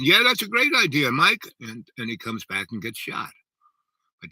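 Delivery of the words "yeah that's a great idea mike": high, loud mock agreement; mock enthusiasm. Imagined reply to Mike about his idea, mock enthusiasm. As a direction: cheer the idea on in a raised, hammed-up voice. Acted quote of Reagan's agreement.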